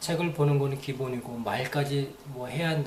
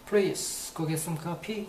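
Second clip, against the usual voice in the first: slow demo; 3 semitones higher, much slower than usual. Shown as a demonstration. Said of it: "그럼 다 알아듣는 거겠죠".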